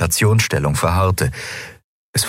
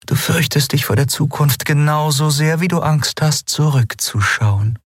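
higher character voice, weary and sighing; tired sigh; 9 semitones higher than usual. Acted. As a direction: say it like a tired exhale. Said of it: "Es klang wie ein müdes Seufzen". (wie ein müdes Seufzen)

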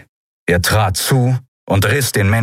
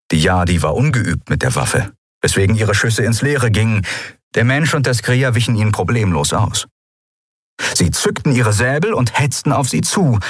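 ordinary delivery

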